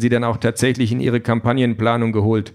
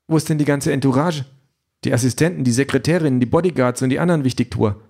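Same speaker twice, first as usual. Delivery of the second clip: lightly voiced woman questioning them; a hint of a sceptical campaign manager; sceptical Aisha; 3 semitones higher, faster than usual. Voices Aisha questioning the candidate's setup. (leicht angedeutete skeptische Frauenstimme)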